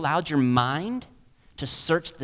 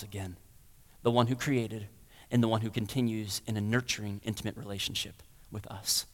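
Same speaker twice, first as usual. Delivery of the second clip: hushed preaching; 6 semitones lower, 7 dB quieter than usual. Real, not acted. Preacher to his church, softly drawing them near. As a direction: drop to a soft, close sermon voice.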